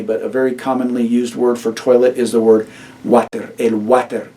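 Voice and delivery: "water" Spanish style, el water; Spanish pronunciation. Shown as a demonstration. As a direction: say "el water" with Spanish vowels and a tapped r. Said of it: "just pronounced with a Spanish accent".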